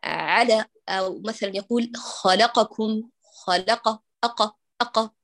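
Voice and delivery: خلقكم with the fatha of ق cut short; snatched vowel. Shown as a demonstration. Teacher demonstrates snatching the vowel. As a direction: clip the vowel on ق in خلق, أق. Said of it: "كأن يقول القارئ مثلًا".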